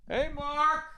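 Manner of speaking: high, bright greeting to a regular; cheery diner greeting. Retold or imitated.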